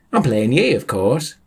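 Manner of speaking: chirpy high-pitched character; perky high voice; high cheerful Sam voice. Acted.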